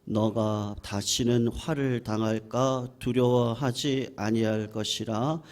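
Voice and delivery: slow, level-pitched reading aloud; scripture reading. Real, not acted. Pastor reads scripture to the congregation in a solemn monotone. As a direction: read it in an even, measured monotone.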